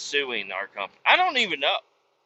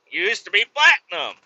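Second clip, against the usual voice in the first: louder, higher indignant correction; indignant repeat; 6 semitones higher, 6 dB louder than usual. Retold or imitated. A trucker correcting the hotel clerk, indignant and louder. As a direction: insist on it the second time.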